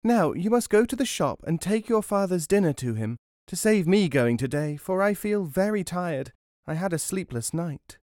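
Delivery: high-pitched wife and mother; mother instructing child. A narrator's reading. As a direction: send your little son on an errand. Mother sends child on errand.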